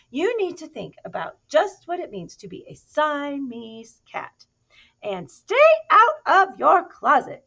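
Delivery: high, loud exasperated lecture; lecturing mother. Acted. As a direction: drill it into him like a cross mum. Mother lecturing her kitten.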